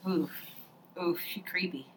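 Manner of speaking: a hushed, creeped-out whisper; whispered unease; whispered aside. Real, not acted. Whispered aside about stepmom.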